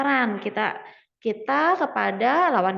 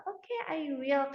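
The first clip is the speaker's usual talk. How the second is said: slow, soft, hesitant agreement; unsure, still confused; 3 semitones higher, 6 dB quieter, slower than usual. Acted. Teacher acting a reply to a suggestion, still unsure. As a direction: agree quietly, as if not quite convinced. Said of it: "kayak dia masih bingung".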